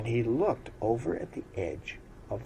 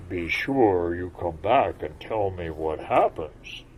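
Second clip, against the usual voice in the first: froggish voice; 2 semitones lower, 7 dB louder than usual. Acted. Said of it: "in his froggish voice".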